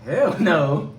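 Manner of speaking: high, forceful outburst of denial; emphatic refusal. Real, not acted. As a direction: shoot it down hard, pitch jumping up. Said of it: "Why you say it like that?".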